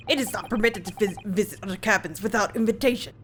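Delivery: lightly done Russian sailor, boastful; a guard bragging in a mock Russian accent; bad Russian accent. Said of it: "my very bad Russian attempt".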